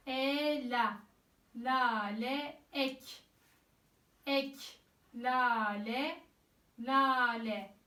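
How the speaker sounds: slow, each syllable spelled out clearly; reading syllable by syllable. Shown as a demonstration. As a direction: read it out slowly, syllable by syllable. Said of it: "heceleyerek okuyacağım".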